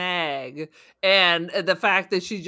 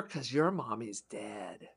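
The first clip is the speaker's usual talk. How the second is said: much softer and slow, deadpan; mock gentle; 11 semitones lower, 13 dB quieter, slower than usual. Robot-building mom telling the child softly and slowly. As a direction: drop it soft and slow like bad news. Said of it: "I'm gonna build a robot mommy".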